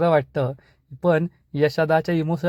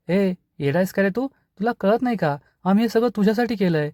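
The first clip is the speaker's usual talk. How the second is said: higher, rushed indignant retort; 5 semitones higher than usual. Acted. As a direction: fire it back fast and high, offended. Brother hits back in quarrel.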